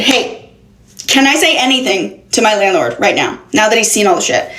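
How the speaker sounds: restrained, courteous asking; retold polite request. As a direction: ask permission kindly, holding back. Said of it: "I say to him very fine, kindly".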